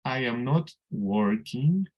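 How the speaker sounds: slow dictation with "not" lifted; slow classroom dictation stressing "not". Shown as a demonstration. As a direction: lean on "not", the new word. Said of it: "Y copio lo demás igualito".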